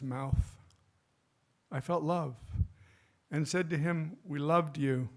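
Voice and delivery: measured poetry recital with pauses between phrases; deliberate, phrase-by-phrase poem delivery; poem reading. Acted. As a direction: read your own elegy aloud, line by line.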